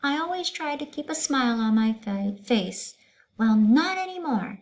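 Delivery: high, loud stern ultimatum; stern teacher. Acted. Teacher refusing to continue class, stern. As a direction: lay down the law to the class.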